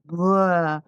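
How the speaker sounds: spilling-it-all "bleh"; mimed retching "bleh". Retold or imitated. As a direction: blurt it out like mock vomiting. Mimes spilling guts on strangers.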